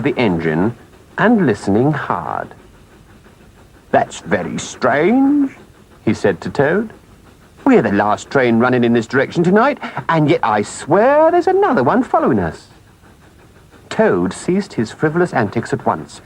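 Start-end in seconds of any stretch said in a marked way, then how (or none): 3.9-5.6 slow, lightly voiced engine driver, puzzled. Engine driver puzzling aloud to Toad, slow and wondering. 7.6-12.7 lightly voiced engine driver, rising in pitch on the oath; puzzled engine driver. Engine driver telling Toad of a following train, increasingly insistent.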